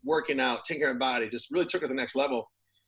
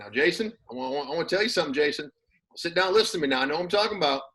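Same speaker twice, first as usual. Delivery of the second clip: a light Texas Southern twang, imitating an old-school coach; Gary Darnell's Southern twang; 4 semitones higher, faster than usual. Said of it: "he's got a Southern twang".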